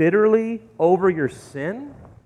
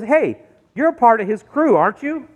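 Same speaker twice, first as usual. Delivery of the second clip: lightly voiced, higher questioning accusation; servant girl's accusation; 5 semitones higher than usual. Servant girl confronting Peter by the fire, accusing. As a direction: challenge him with a lifted pitch. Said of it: "she says".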